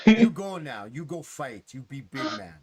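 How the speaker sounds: lightly voiced simple-spoken creature; Mark. Mark urging the player to fight, lightly voiced send-off. Game master voicing Mark's send-off.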